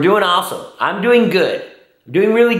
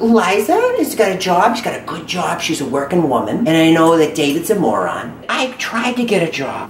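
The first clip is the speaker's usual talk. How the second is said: put-on older mom voice. Holds mother character voice.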